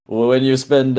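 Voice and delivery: a hint of a French accent. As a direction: slip lightly into a French accent. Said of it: "why am I doing a French accent?".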